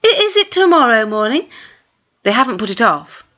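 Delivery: put-on high, quick nervous girl; startled girl. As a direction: blurt it out, caught off guard.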